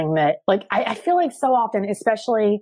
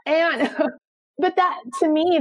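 light laugh breaking into the words, pitched up; 8 semitones higher than usual. Real, not acted. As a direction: laugh it off brightly, a bit higher. Laughs after praise of mom.

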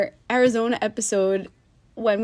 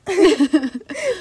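high burst of real laughter; loud laugh; 9 semitones higher, 4 dB louder than usual. Real, not acted. Friend cracks up at the bug-scare comparison, big laugh.

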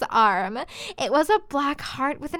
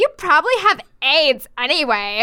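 mildly raised, scornful jab; mock angry shout; 3 semitones higher than usual. Girl insulting Draco as she leaves, mild mock shout. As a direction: throw the insult with pretend anger. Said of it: "I shouted".

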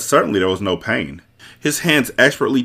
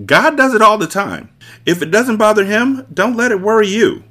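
high loud scornful boss; arrogant villain voice; 12 semitones higher, 4 dB louder than usual. Acted. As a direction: sneer down at the others.

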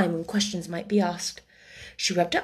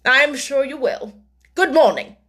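sinister smile; 5 semitones higher, 6 dB louder than usual. A narrator's reading. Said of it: "with a little sinister smile".

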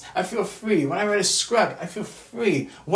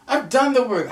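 louder, higher insistent repeat; emphatic; 5 semitones higher, 4 dB louder than usual. Real, not acted. To the camera, insisting on her effort: raised emphatic voice. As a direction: hammer the point home, louder.

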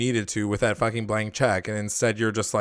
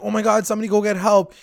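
high, fast mock panic; panicked Jughead; 8 semitones higher, faster than usual. Jughead panicking to the class after a fall, high and fast. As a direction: rush it out as a frightened student. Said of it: "He's like".

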